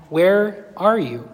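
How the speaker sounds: slow calling voice. Acted. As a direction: call out slowly, searching. God calling to hiding Adam.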